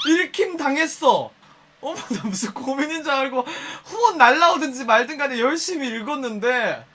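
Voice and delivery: loud, prissy faked indignation; mock offended. Streamer pretending to be offended by viewers. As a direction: play hurt and huffy. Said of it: "나 낚였어".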